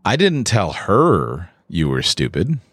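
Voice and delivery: "her" singled out, the line said slowly; stress on her. Shown as a demonstration. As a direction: point at one person with "her". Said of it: "I may have told someone else".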